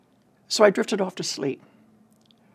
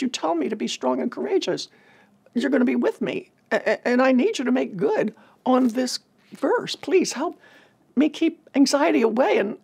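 pleading prayer in a higher voice; higher-pitched, stumbling plea to Jesus; anxious prayer; 5 semitones higher than usual. Retold or imitated. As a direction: pray haltingly, holding off panic. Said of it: "And so I prayed".

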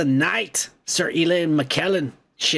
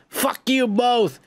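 Fuck you both, slow and higher; slow insult; 6 semitones higher, slower than usual. Pretend. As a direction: drag Fuck you both out in pretend fury. Venting at staff in photo.

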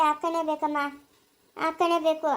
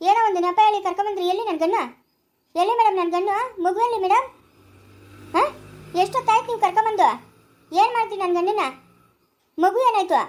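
raised, agitated voice, pitched up; worked-up, insistent protest; loud demanding; 4 semitones higher than usual. Acted. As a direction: demand answers loudly, question after question. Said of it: "ಜೋರಾಗಿ ಮಾತಾಡ್ಬೇಡ".

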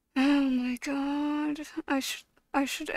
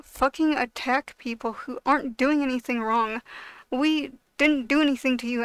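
angry rant. Real, not acted. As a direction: let the anger boil over and shout them down. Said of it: "I got mad there".

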